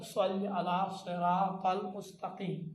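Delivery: "صلی علی صراط المستقیم" slowly, each s thick and emphatic; slow recitation with heavy sad in "صراط"; thick Arabic sad. Shown as a demonstration. Teacher shows sin thickened into sad, heavy s. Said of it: "سین کو تھوڑا موٹا تلفظ کرو".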